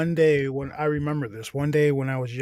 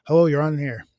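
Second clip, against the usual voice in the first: louder mock radio host greeting; 3 semitones higher, 5 dB louder than usual. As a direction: answer like a DJ going live.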